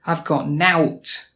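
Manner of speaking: slow "nowt" rhyming with "out", Manchester style. Shown as a demonstration. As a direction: draw out the Manchester "nout". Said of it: "you might hear out and nout instead".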